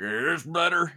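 mild mock alien voice; imitated alien. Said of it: "and he's like".

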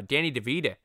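"DeVito" ending in a Boston uh, "DeVeeda"; Boston accent. Acted. Podcaster slipping on a star's name, Boston accent. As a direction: say "DeVito" with a soft d and Boston final vowel. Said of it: "sorry about my Boston accent there".

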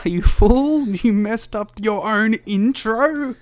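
high, loud playful taunt; mock insult. Real, not acted. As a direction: tease him with a loud jeer. Mocking cohost playfully.

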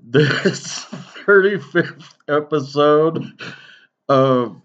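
slow, pompous court announcement; mock formal proclamation. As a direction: read it like a royal decree. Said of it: "that goofy fucking intro".

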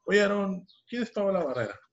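a curious mother's pointed question; imitating his mom. Mom voiced in retold phone story. (imitando a la mamá, más aguda y fuerte)

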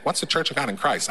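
a lightly put-on white guy voice asking "What's the Church of God in Christ?"; mildly mock the puzzled white churchgoer saying "What's the Church of God in Christ?"; white people voice. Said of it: "That's my white people voice".

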